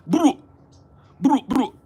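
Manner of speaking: high, loud mock Jamaican greeting; mock Jamaican accent. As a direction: yelp it in a fake Jamaican voice. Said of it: "Her Jamaican accent".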